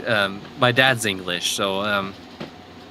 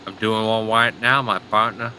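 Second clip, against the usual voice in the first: lightly put-on southern accent. Shown as a demonstration. Teasing a friend from Tennessee, mock southern accent. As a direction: do a bad southern accent, casually. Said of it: "if I do a southern accent".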